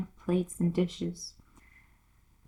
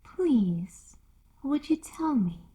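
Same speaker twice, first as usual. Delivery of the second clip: timid; 6 semitones higher, slower than usual. Acted. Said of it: "said Alice a little timidly".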